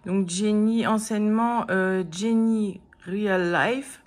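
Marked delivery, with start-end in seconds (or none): 2.1-4.0 English name said slowly in a French accent; slow English words in a French accent. Real, not acted. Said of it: "Désolée pour mon accent".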